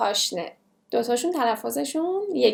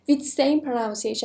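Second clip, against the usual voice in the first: slow teacher delivery; slower than usual. Shown as a demonstration.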